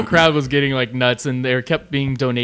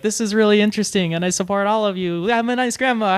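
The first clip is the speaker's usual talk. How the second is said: higher-pitched imitation of a sweet grandma; 8 semitones higher than usual. Grandma addressing the event crowd, imitated in a high voice. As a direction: imitate a grandma cheering everyone on, voice lifted. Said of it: "his grandma sat with him and was like".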